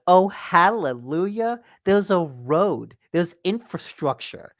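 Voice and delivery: drawn-out, sing-out hallelujah of relief; slow, savoured exclamation at finally finding a road; retold relief. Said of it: "And I'm like".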